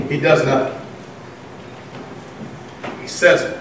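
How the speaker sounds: soft, near-whispered telling; hushed preaching. Acted. Preacher hushes the congregation about Jesus' silence, softly. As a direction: drop the voice to draw them in.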